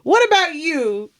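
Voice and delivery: mock suspicion. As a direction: probe him like a playful detective. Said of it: "I go".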